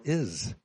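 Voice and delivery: "is" lifted and leaned on; stress on is. Shown as a demonstration. Preacher pointing to the word "is", stressing it. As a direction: hold up the word "is". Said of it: "I see the emphasis is on the word".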